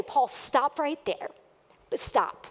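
slow, firm command to stop; cutting Paul off with a firm command. Acted. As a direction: halt him mid-sentence, firmly.

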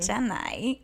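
failed attempt at a Southern "Jenny"; bad Southern accent. Testing the Forrest Gump accent, poor Southern imitation. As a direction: say the name in a badly faked Southern accent. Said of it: "That's not Southern".

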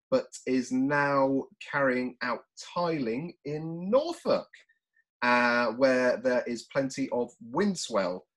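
slow, measured presenter delivery; announcer introduction. Acted. Podcast host introducing the surfing guest, slow announcer style. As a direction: introduce the guest slowly and deliberately.

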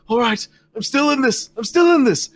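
high-pitched battered contender; defiant underdog. Acted. Slapped orc refusing to quit the contest, defiant.

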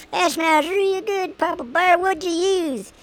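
high, drawn-out mock admirer; admiring questioner. Admirer asks Papa Bear what he used, high and gushing. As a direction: pitch it up high and slow, playfully impressed. Acts out an admirer asking him.

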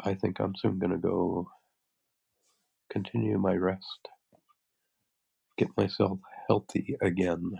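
congested, blocked-nose voice; stuffy nose. Real, not acted. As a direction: talk through a head cold. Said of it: "I'm kind of stuffy".

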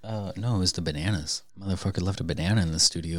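talking while chewing; eating veggie straws mid-sentence; mouth full. Real, not acted. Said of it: "Sorry, I'm eating some veggie straws".

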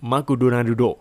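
"McDonaldo" syllable by syllable, ma-ku-do-na-ru-do; Japanized "McDonaldo" with added vowels; Japanese accent. Shown as a demonstration. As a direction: say "McDonaldo" in loud Japanese-style English. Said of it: "อ่านแบบญี่ปุ่น ญี่ปุ่นก็จะเป็น".

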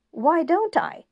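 high, loud bitter shout; angry outburst. A narrator's reading. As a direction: throw the question back at her, furious. Julian bursts out at counselor.

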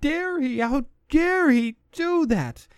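high, hammed-up indignant voice; mocking outraged fans. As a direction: parody the whiny social media crowd. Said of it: "What I heard a lot on social media".

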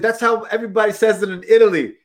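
hammed-up Italian-American know-it-all; Terry. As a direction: imitate a friend insisting he's right. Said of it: "He's like".

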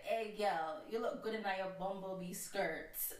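put-on slow, lightly done Jamaican accent; a hint of Jamaican flirt. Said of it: "do Jamaican accent".

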